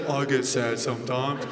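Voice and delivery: low, soft, laughing British murmur; softly mumbled British accent impression; impression of a singer. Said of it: "He's like".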